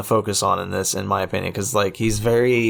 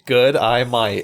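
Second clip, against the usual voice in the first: Australian accent; slower than usual. Shown as a demonstration. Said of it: "Say it with me".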